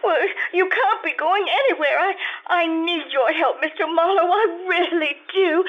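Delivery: tearful, halting plea with rising pitch; distraught pleading. Acted. Client begging the detective not to leave, distraught. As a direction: beg desperately, stumbling over the words.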